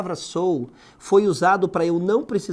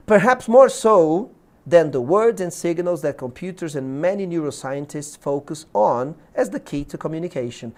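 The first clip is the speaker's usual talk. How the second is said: "Perhaps more so" drawn out and loud, then easing off; deliberate reading intonation; 4 dB louder than usual. Shown as a demonstration. Teacher showing how the exam sentence reads, "more so" stressed. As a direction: read in English, leaning hard and slowly on "more so". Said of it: "tu tem que ler com a entonação correta".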